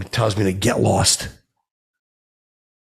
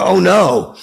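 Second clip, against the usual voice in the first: mock dread; 9 semitones higher, 8 dB louder than usual. Mock dread before Lannister joke.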